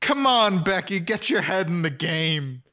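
mock scolding. Scolding a sitcom character.

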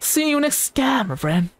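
high, very slow drawn-out farewell; sing-song outro. Acted. Creator signing off to friends, high and drawn out. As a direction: stretch the goodbye out high and slow.

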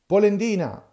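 loud, high jeering yell of Polendina; jeering yell at Geppetto; shouted insult. Acted.

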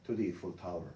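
slow, soft full sentence for repetition; slow model sentence. Shown as a demonstration. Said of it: "됐죠".

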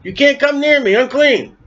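high calling cry of a leper; crying unclean. Retold or imitated. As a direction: call out the warning, unclean.

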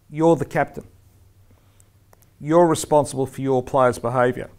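firm, emphatic handing over of responsibility; firm instruction. Shown as a demonstration. Referee telling the captain to control a player, firm. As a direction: put it squarely on the listener. Acted stern word to the captain.

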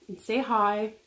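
forkful of noodles at lips; talking mid-bite; eating noodles while talking. Real, not acted. Seen 0: Right speaker lifts forkful of noodles to lips while talking.

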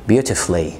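beautifully said as "beauti-flee"; beautifully with the u swallowed; correct pronunciation. Shown as a demonstration. (beautifully من غير الـ u)

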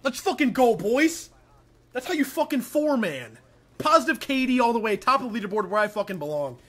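loud high hyped bro brag; frat bro. Pretend. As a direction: shout it like a cocky bro. Hyped mock gamer bro bragging.

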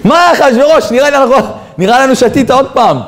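high-pitched baffled protest; acted incredulity. Courtiers to Ahasuerus who chose the old woman, incredulous.

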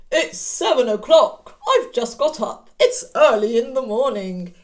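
a lightly voiced wolf, just woken up; sleepy Mister Wolf. Teacher voicing the wolf to the children, lightly sleepy. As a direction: yawn the words out as a drowsy wolf.

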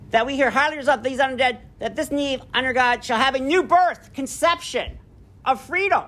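measured speech read aloud; lightly declaimed speech; oratorical reading. Acted. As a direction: read it like a solemn address. Reads Gettysburg Address aloud.

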